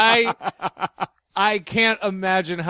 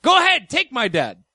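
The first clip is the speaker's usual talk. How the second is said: put-on old-school Catskills joke delivery; borscht belt comic; slower than usual. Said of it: "He was stealing from a Catskills comedian".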